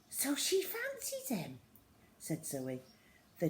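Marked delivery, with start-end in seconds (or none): 0.1-1.6 high, giggly rising question; gossipy surprise. Acted. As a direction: tease it as juicy gossip.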